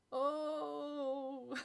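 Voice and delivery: a hammed-up groan from the floor; mock moan. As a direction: moan like you're hurt, pretending. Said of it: "I moaned loudly".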